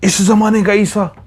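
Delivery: high, pressing fury; angrier demand. A narrator's reading. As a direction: demand an answer in rising anger. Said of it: "पहले से ज़्यादा गुस्से में".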